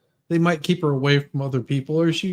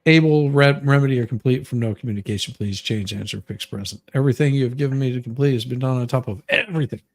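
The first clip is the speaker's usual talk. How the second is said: rereading the letter; 2 semitones lower, faster than usual. Acted. Host rereads the letter's last part, fast and lightly mocking. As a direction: rattle it off like the letter writer. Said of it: "the last part was just".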